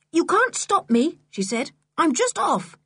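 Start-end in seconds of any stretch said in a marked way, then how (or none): 0.1-1.2 put-on defiant girl. George defiant on the beach. 2.0-2.8 put-on defiant girl. George defiant on the beach.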